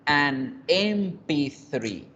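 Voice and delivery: "an M P three" said very slowly, word by word; slow, careful teaching model of "an M P three"; model pronunciation. Shown as a demonstration. Teacher showing which article fits, slow model "an M P three". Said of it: "Entonces debemos decir an".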